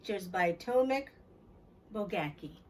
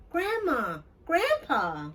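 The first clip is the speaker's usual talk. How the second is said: excited greeting; 4 semitones higher, 4 dB louder, much slower than usual. Acted. Child greets grandparents arriving.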